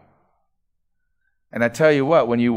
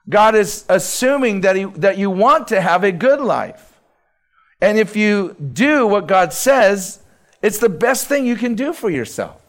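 raised, rising sermon voice building to a peak; preaching at full force; 8 semitones higher, 5 dB louder than usual. Acted. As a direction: preach it out to the congregation, high and strong.

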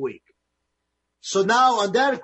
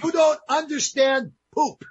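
translated insult; 8 semitones higher, 4 dB louder than usual. Retold or imitated. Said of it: "we cleaned this one up".

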